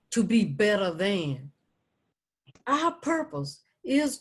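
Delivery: deliberate poetry reading with spaced phrases; poem read out, building in firmness then settling; poem recitation. Acted. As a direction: recite each line as a measured declaration. Recites her second poem.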